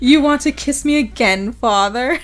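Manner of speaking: mocking question through laughter; laughing taunt. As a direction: taunt him while laughing. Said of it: "Tonio starts to laugh".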